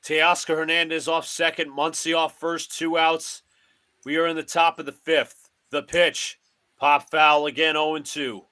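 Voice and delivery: broadcaster cadence, calling each pitch; mock radio play-by-play of a Yankees game. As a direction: call the game like a TV announcer.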